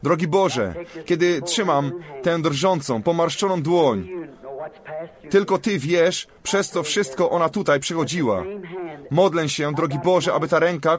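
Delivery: fervent prayer voice, laying on hands; earnest prayer. Real, not acted. Preacher praying for a woman's healing, earnest prayer. Prays holding an old hand.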